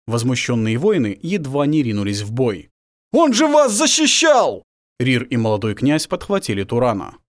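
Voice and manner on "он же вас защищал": high, loud, slow shout; outraged shout. Acted. Warriors shout at the knife thrower, high and loud. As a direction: cry out in outrage. Outraged cry after stabbing.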